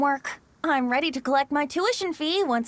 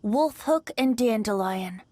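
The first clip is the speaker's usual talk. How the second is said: poem recitation; 3 semitones lower than usual. Acted. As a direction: savour each line of the poem. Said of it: "Bennett, may I recite your work?".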